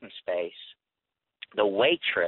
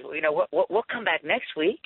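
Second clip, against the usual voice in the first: joking voice; 7 semitones higher than usual. Retold or imitated. Larry jokes with waitress.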